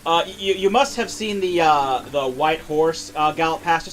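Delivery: stammering Goldblum as a villain; Jeff Goldblum voice. Acted. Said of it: "do the Jeff Goldblum voice for Ganondorf".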